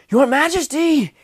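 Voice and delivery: high, loud, slow scream of the title; screamed call. A narrator's reading. Wounded knight screams for the king ahead, loud and high. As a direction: stretch it out to reach him. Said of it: "he screamed".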